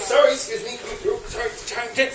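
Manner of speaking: hushed, hurried-sounding excuses; apologetic squeezing past. Acted. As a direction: apologise softly while edging back to your seat. Returning along the cinema row.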